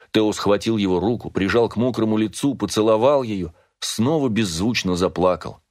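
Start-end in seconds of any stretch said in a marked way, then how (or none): none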